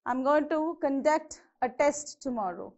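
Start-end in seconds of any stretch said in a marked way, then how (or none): 0.8-1.4 conDUCT, first vowel reduced; stress on second syllable. Shown as a demonstration. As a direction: say "conduct" as a verb, weight on DUCT. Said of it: "you have to stress on the second".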